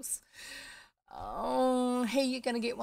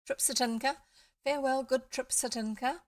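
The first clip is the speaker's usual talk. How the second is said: prince's farewell; 5 semitones higher, 5 dB louder than usual. Acted. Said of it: "cried the prince".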